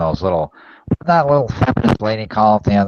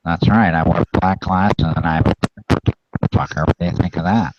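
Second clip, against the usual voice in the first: nerd voice. Acted. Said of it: "you sound like a nerd from high school".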